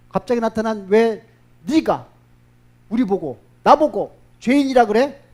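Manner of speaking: how dare you call us sinners; indignant protest. Acted. Leaders protesting to Jesus about being called sinners, loud indignation.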